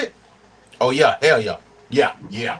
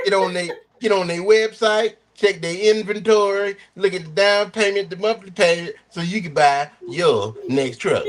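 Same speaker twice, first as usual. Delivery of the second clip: higher, pushy salesman voice; imitating a truck ad guy; 4 semitones higher than usual. Imitating a truck dealer ad to fellow driver, salesman pitch. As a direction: sell the truck like the ad. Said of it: "exactly how that motherfucker sounds".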